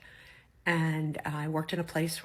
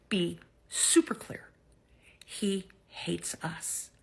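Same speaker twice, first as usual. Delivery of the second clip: pointed whisper; much slower than usual. Real, not acted. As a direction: drop to an intense whisper. Pointed aside to women viewers.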